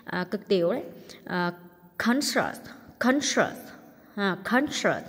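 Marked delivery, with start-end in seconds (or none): 2.0-5.0 "conscious" with the first syllable stressed. Shown as a demonstration. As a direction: hit the start of "conscious". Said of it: "nhấn âm đầu". (nhấn âm đầu "conscious")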